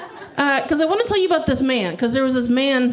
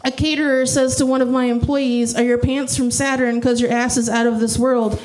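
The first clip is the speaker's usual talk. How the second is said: lightly rhythmic poem recital; mock spoken-word storytelling; parody slam poetry. Shown as a demonstration.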